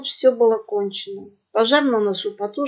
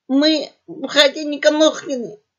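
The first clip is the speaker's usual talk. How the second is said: higher, yapping little pug voice; lisping yap; 5 semitones higher, 4 dB louder than usual. A narrator's reading. Young pug telling the pirates their name, yapping. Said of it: "картаво протявкал один из них".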